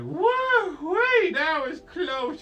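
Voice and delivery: high, loud, drawn-out mock relief; relieved whoop. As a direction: whoop after a close escape. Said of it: "and they're like".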